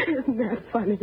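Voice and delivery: broken laugh running into words; joyless, overwrought laughing; bitter laughter. Acted. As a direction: laugh helplessly at the bitter irony. Laughs bitterly at their false happiness.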